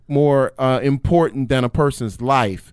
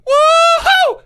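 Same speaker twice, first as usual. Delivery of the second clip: loud, very high whoop of joy; excited whoop; 6 dB louder than usual. Real, not acted. Contestant cheers at the bonus shoes, loud whoop. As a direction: cheer out loud like you won.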